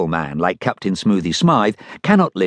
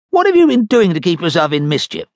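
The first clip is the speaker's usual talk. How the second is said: captain's voice; 9 semitones higher, 4 dB louder than usual. Acted. Captain talks to Dud.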